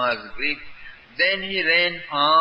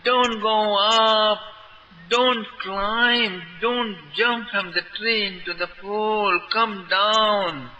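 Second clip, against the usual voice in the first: panicked shout; 7 semitones higher than usual. A narrator's reading. Boys begging Krishna not to jump, panicked shouting. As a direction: scream at him to stop. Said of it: "all boys shouted out in panic".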